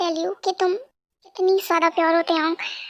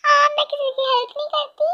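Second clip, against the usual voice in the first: higher mocking voice; parroting his insult with a mocking higher voice; mocking rude girl; 6 semitones higher than usual. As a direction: throw his words back in a sneering tone. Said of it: "तुमने मुझे कहा मैं rude.".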